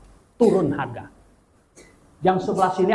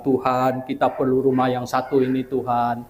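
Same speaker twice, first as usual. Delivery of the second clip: low, measured plea to God; retold prayer; 5 semitones lower than usual. Praying to God for this one house, low and steady. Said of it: "saya bilang".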